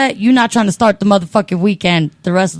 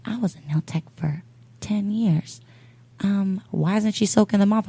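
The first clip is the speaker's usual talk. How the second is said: imitated whisper; 6 dB quieter than usual. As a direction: lean over and whisper it. Nail tech neighbour whispers.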